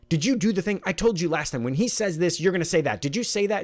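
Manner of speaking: scolding the wife over the same mistake; frustrated lecturing. Retold or imitated.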